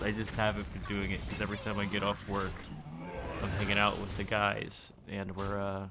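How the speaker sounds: just woke up, groggy voice; sleepy morning groggy. Real, not acted. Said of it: "I might sound a little groggy 'cause I woke up".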